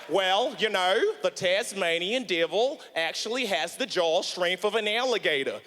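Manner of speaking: low mock Australian voice; Australian zookeeper accent. Zookeeper telling comedian about Tasmanian devil, mock Australian accent. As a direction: explain it in a put-on Australian accent. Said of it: "'cause that's how they sound".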